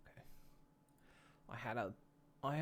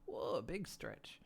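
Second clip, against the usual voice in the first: drawn-out stretch call; 4 semitones lower, 13 dB quieter, much slower than usual. Shown as a demonstration. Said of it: "some kind of vocal redeem for that".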